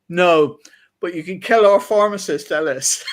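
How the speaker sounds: a hint of a hammed-up shout; mock shouted joke. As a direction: call it out like a chemist's banter. Joking chemist's cheeky comeback.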